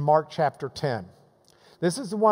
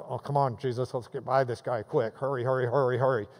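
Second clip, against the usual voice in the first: low, softened hurrying along; mock embarrassed urging under the voice; hushed urging; 6 semitones lower, 5 dB quieter, faster than usual. Disciples hustling Jesus past the blind man, low urging.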